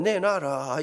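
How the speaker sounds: low, soft demand; commanding inner voice. Retold or imitated. God's voice in his head, low commanding demand. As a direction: intone it like a voice from within.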